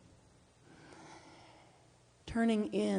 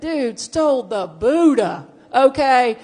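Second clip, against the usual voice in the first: mock outrage; 6 semitones higher, 11 dB louder, slower than usual. Mock outrage over Buddha.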